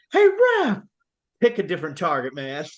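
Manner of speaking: hammed-up jock trash talk; movie trash talk. Imitating a hockey kid from a movie, mock heckle. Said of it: "and he goes".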